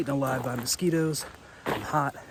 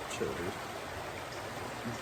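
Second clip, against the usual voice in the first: whispered; 4 semitones lower, 9 dB quieter than usual. Real, not acted. Calming a hooked fish.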